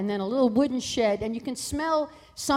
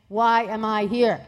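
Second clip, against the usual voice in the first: slow, loud, weighted question; drawn-out exasperated plea; 6 dB louder, slower than usual. Retold or imitated. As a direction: ask it slowly and loudly, word by word. Retells own exasperated question.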